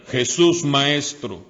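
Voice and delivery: a hint of ten lepers shouting to Jesus from afar; crying out. A narrator's reading. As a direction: call out across the distance for help. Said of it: "a gritos le decían".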